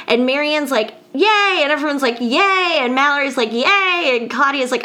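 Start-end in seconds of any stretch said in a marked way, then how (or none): 1.1-1.6 higher-pitched retold cheer; mock cheer. Retelling friends cheering a plan. 2.2-2.8 higher-pitched retold cheer; mock cheer. Retelling everyone cheering a plan. 3.5-4.2 higher-pitched retold cheer; mock cheer. Retelling another friend cheering.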